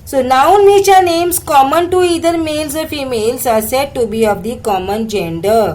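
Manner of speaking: slow, deliberate reading of an English textbook line. Shown as a demonstration. Teacher reading the textbook slowly to students. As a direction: read each English word out slowly for the class.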